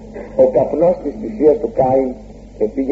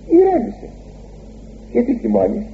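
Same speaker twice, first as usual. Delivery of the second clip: sudden high soft plea; gentle calming; 10 semitones higher, 3 dB quieter than usual. Shown as a demonstration. Preacher voicing God calming Cain, high and soft. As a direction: coax him to calm down, lifted high. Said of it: "σημαίνει".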